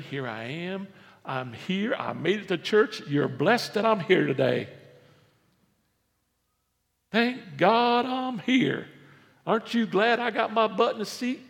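lightly voiced self-important churchgoer, pitch climbing; boastful Pharisee. Pharisee announcing he made it to church, mildly hammed-up boasting.

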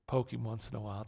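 ordinary talk, nothing marked

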